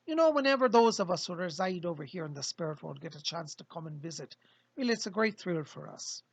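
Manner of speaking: a lightly voiced spirit guide, jovial greeting; cheerful spirit guide saying hello to the living; Fletcher channeled spirit. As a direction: speak as a friendly visiting spirit through the medium. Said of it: "this is Fletcher".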